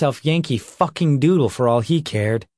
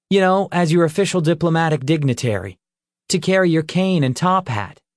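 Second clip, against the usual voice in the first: playful joking voice; 5 semitones higher, faster than usual. Acted. Redbone jokes, voiced figure.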